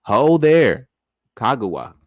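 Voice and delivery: loud hammed-up Ho there; mock hail. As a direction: bellow her name in jest. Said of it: "They were like".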